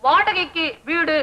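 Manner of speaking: slow, deliberate reading of a sign; spelled-out quote. Acted. Man recounting the rental board to her, spelled-out quote. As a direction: draw out each word of the notice.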